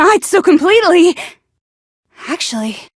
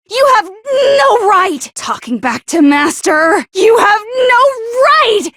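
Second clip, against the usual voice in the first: indignant scolding; 4 semitones higher than usual. Acted. Servant scolding for her master.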